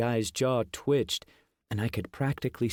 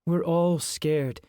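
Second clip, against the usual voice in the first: gentle; 4 semitones higher, slower than usual. A narrator's reading. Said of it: "with a gentle smile".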